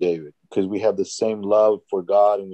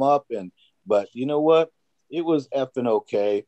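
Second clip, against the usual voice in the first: imitating a cussing coworker, pitched higher; mock cursing cop; 4 semitones higher than usual. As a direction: ham up a foul-mouthed cop buddy. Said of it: "the way they talk about it is like".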